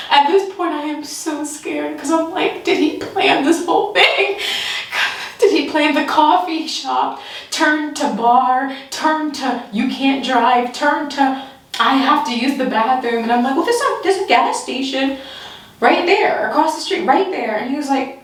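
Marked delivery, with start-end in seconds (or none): 2.6-13.2 high, slowing panicked questions; high fearful wondering; panicked suspicion. Retold or imitated. Panicked thoughts. 13.6-17.6 high, anxious pointing elsewhere; high-pitched nervous redirect. Retold or imitated. Pointing him to gas station.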